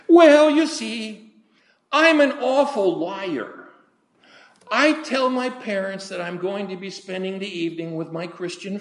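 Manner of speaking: put-on high, pleading British-story teen girl; teenage girl. Girl confessing her lying to the preacher, high voice.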